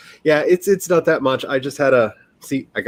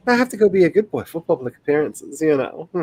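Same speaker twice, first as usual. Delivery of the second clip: supervillain voice; 4 semitones higher than usual. Pretend. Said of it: "that's what all supervillains say".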